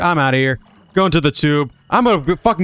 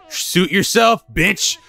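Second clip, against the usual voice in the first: put-on higher-pitched mysterious old woman; lightly voiced cryptic old-timer, pitched up; old mountain woman; 4 semitones higher than usual. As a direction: warn them as an odd old character. Voices the old woman's game dialogue.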